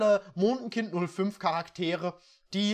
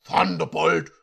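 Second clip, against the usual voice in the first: louder commanding order; 3 semitones lower, 6 dB louder than usual. Acted. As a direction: order the servant about. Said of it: "befahl der Halbeinhornprinz".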